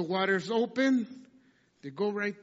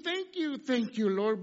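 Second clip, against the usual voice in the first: mocking quote; 5 semitones higher, slower than usual. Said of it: "What do you mean".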